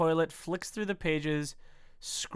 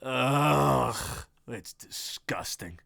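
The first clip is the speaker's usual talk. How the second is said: put-on Australian accent; 4 semitones lower, much slower than usual. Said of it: "deep voice Australia man".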